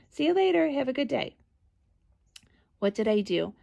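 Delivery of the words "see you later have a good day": high, bright sing-song "See you later"; cheery sing-song goodbye. Retold or imitated. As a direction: wave her off in a sunny lilt.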